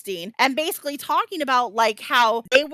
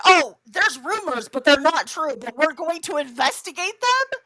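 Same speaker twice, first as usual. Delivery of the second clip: mocking; 3 semitones higher than usual. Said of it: "they're like".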